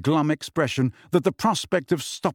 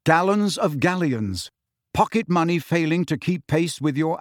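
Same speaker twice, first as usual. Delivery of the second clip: higher-pitched advertising read-out; advert notice; 3 semitones higher than usual. A narrator's reading. Twins' job notice in the common room, advert read-out.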